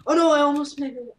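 whispering. Real, not acted. Whispered near miss.

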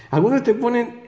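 breaks into a laugh on algunos te ponen. Real, not acted. Vlogger mocking cubing videos, laughing as he says it.

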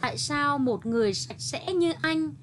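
a hint of a timid, courteous sparrow; polite sparrow. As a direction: ask sweetly and politely, a small bird to a cat. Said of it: "Lễ phép nói".

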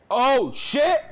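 high, loud panicked cry; startled yelp. Real, not acted. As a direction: caught off guard by a monster. Jump scare in horror game.

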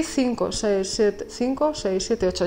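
soft, quick Spanish count, half to herself; counting under her breath. Real, not acted. Working out her destiny number, counting softly. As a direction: murmur the numbers while working it out.

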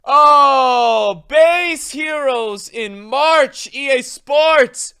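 drawn-out, loud hyped call; hyped exclamation. Real, not acted. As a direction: stretch it out like a hype announcement. Chanting the game's slogan.

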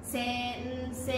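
"先生" stretched into se-n-se-i; four even beats on "先生", easing off; four separate morae. Shown as a demonstration. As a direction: sound out "先生" slowly, beat by beat. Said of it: "四拍あります".

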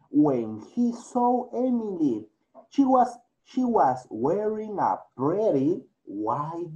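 clear, steady storytelling voice for the class; story reading. Acted. Teacher reading a story to her English class, clear storytelling. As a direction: read the story aloud so students can follow.

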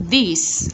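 "This" with a clear hissed final S; S ending sound. Shown as a demonstration. Teacher modelling ending sounds, hissed final S. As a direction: finish "This" on a distinct S. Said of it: "S ending sound".

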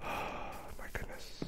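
slow sighing whisper; weary whisper. Real, not acted. Gamer after the loss, tired sighing whisper. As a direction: breathe it out, defeated.

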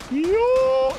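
high, loud charge call; rallying shout. Real, not acted. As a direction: yell them forward. Urging teammates to charge.

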